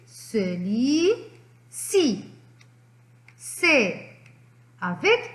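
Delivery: each sound drawn out slowly; slow syllable reading. Shown as a demonstration. Teacher reading syllables slowly to the class. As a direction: read it slowly so children can follow. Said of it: "on va lire ensemble les syllabes".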